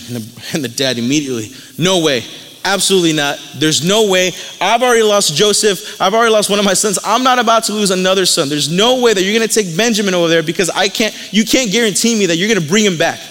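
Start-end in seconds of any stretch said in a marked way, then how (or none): 1.8-13.2 frustrated refusal, a little raised; acted-out fatherly protest, insistent; upset father. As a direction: mildly voice an upset dad putting his foot down. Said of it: "the dad's just upset and just frustrated".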